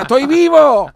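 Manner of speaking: high, loud desperate cry; high-pitched, loud shout of a panicked little fish; Nemo shouting. Acted. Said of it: "Empieza a gritar".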